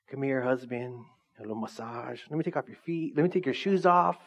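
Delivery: soft, sweet doting wife voice, lightly played; a hint of a sugary wife. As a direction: coo like a wife pampering her husband. Mock wife voice in sermon joke.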